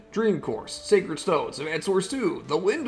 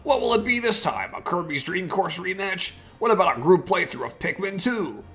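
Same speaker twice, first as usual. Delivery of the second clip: character voice; 4 semitones higher than usual. Acted. K-Man character lines continue.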